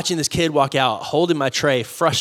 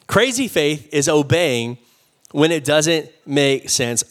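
slow and deliberate, every word weighted; slow, weighty restatement; slower than usual. Shown as a demonstration. Pastor repeating point one for notetakers, slow and weighty. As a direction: let it sink in for note takers. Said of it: "point repeated slowly for notes".

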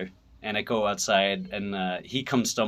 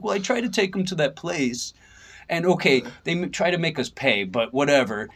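put-on German accent; 6 semitones higher than usual. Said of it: "he's got that German accent".

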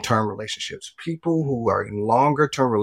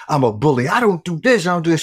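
retold indignant protest, pitch climbing; losing it; 5 semitones higher than usual. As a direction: protest in rising disbelief, acting out your past self. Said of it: "lost it".

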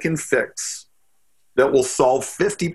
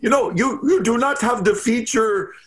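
put-on Russian accent; 7 semitones higher than usual. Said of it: "he had this Russian accent".

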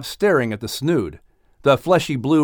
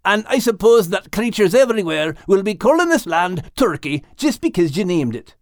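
grumpy horse voice; 6 semitones higher than usual. A narrator's reading. Max grumbles at turkeys.

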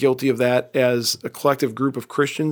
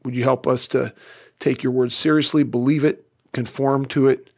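closing prayer. Acted. Pastor closing the sermon by praying for the congregation, earnest prayer. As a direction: pray it sincerely, lifting each request.

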